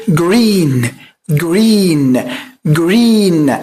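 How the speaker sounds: "green" with an untrilled English r and long ee; soft English R. Shown as a demonstration. Teacher models for students to copy, soft r in "green". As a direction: soften the r in "green", stretch the ee. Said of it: "خليك ألدغ في اللغة الإنجليزية في حرف الراء".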